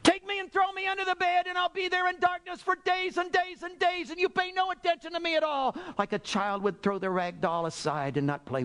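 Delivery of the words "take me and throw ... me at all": high, fervent cry of surrender; impassioned acted prayer, pitched way up; Saint Teresa. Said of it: "And said, "God".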